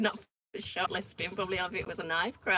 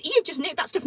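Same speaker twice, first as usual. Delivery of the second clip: raised accusing call; 7 semitones higher, 5 dB louder than usual. Retold or imitated. Confronting shoplifter outside Sainsbury's.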